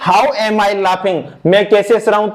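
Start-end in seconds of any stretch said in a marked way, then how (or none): 0.1-1.2 slow dictation. Shown as a demonstration. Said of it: "तो".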